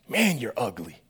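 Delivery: chuckling through the insult; laughing taunt. Retold or imitated. Kid Johnny insulting his friend, laughing. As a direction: tease him through a laugh.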